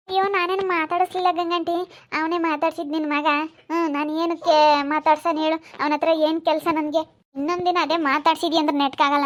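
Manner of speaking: put-on girl protesting to the aunt, loud and high. Girl protests her innocence.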